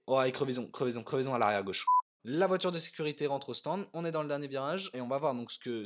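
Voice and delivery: steady live race play-by-play; motorsport commentator. Real, not acted. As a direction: keep calling the race live. (commentateur de course automobile)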